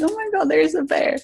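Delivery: high-pitched, thrilled retold gasp of words; delighted exclamation. Hiker spots a cute bear playing with a branch, delighted exclamation. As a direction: relive spotting something adorable, pitch jumping up.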